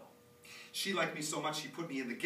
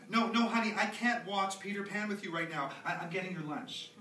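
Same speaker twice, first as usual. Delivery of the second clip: put-on raised, high call to a child; 5 semitones higher, 4 dB louder than usual. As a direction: call out over the noise, a bit harried. Calling to child offstage.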